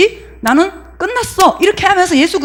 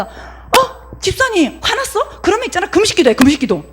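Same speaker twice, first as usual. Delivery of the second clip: higher-pitched, lightly acted busybody advice; advice-giving churchgoer; 5 semitones higher than usual. One believer counselling an angry deacon, lightly acted advice-giving. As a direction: open with a high surprised question, then press the advice. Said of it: "자기가 했던 방법을 가지고 이 사람한테 얘기를".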